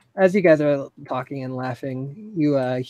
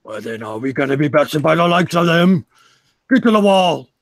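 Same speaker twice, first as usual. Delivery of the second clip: louder battle command; rally them to the wall; war chief bellowing orders to defend; rallying call; 6 dB louder than usual. Acted. Leader rallying troops.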